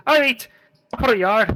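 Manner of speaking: high, rough bandit calling out from the bushes. Acted. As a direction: play a cocky highway robber. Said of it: "You hear this voice is".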